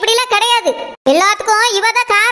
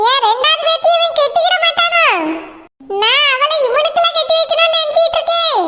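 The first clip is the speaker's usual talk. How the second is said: chuckling; 6 semitones higher than usual. Acted. Grandmother chuckles at her plan.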